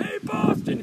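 high, loud heckle; teasing call-out. Retold or imitated. Hockey star calls out a Boston fan, loud and teasing. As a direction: holler it at a rival fan.

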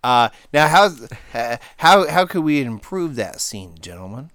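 loud, rallying coach. Acted. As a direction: address the team like a coach. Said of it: "coach voice".

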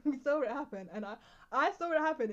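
laughing while talking. Real, not acted. Laughing while retelling fall.

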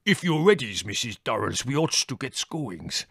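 put-on gruff Greek-accented driver; a hint of broken Greek-English. A narrator's reading.

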